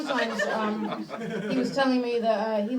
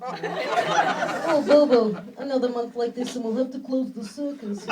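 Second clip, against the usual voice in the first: mock ringmaster; 5 dB louder, slower than usual. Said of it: "he pretends to be an out-of-luck ringmaster".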